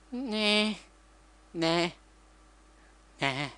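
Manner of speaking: high, offhand nah, nah; dismissive refusal. Retold or imitated. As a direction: brush him off with a high careless no. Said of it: "she's just like".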